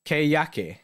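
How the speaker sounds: "Keyaki" said as kay-YAH-kee, three clear syllables; pronouncing Keyaki. Shown as a demonstration. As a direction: spell out "Keyaki" slowly, syllable by syllable. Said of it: "So you pronounce Keiki".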